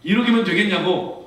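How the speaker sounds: "일억이면" punched high and loud, falling; "일억이면" shouted high, then falls away; amazed loud quote. Retold or imitated. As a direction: proclaim the offer in wonder. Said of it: "말이 이렇게 쉬워요?".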